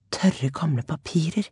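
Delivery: whispered inner thought; thought aloud. A narrator's reading. Alania eyeing the books, whispered thought. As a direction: breathe it as a private worry. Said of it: "tenkte Alania".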